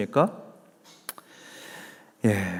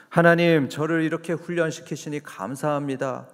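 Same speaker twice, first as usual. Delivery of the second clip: joyful thanks; 4 semitones higher than usual. Retold or imitated. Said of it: "기뻐하면서 감사하면".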